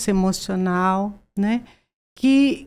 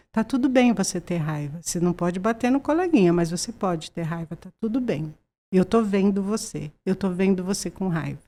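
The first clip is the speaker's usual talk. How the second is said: put-on softer, calm words to an angry child; gentle reassurance; 2 semitones lower, 6 dB quieter than usual. Shown as a demonstration. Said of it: "demo of what to say to child". (suave e acolhedor, mais baixo)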